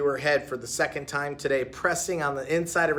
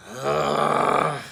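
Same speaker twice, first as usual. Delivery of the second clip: muttered ugh; 4 dB louder than usual. A narrator's reading. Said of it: "muttered Heidi under her breath".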